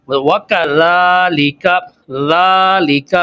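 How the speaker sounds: وَكَذَلِكَ drawn out slowly, every letter clear; slow teaching demo; slow Arabic model word. Shown as a demonstration. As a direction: stretch ذَلِكَ with the dh sound between the teeth. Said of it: "تو اس کی pronunciation کہاں سے ہوگی".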